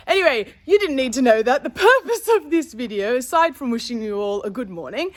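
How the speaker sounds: talking with a retainer in; words slightly thick from a retainer; wearing a retainer. Real, not acted. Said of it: "I sound funny when I have my retainer in".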